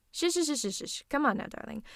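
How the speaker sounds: rapid repeated shushes; hushing. Acted. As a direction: cut off the protest with soothing shushes. Hushing the protesting patient.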